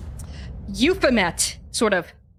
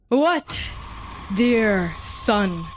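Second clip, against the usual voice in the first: stern divine father; 4 semitones lower than usual. Acted. Divine father quizzing his cowering son on his first rule, stern.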